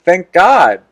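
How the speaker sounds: said clearly for everyone. Real, not acted. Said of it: "I said".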